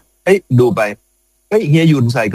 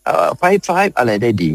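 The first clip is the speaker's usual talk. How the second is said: showing off English; 8 semitones higher, much slower than usual. Retold or imitated. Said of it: "ผมก็ต้องโชว์นะ".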